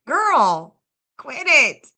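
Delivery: loud mock scolding; teasing quit it. Real, not acted. Streamer teasing a chatter to stop, playful loud scold. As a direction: bark it out playfully at a friend.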